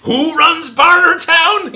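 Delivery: high, slow, booming mock demand; hammed-up shout. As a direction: bellow it like a movie tyrant. Shouted film quote, then apology.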